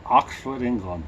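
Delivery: half-hearted try at British; barely British, own accent showing through; attempted British accent. Shown as a demonstration. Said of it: "Can you talk in British accent?".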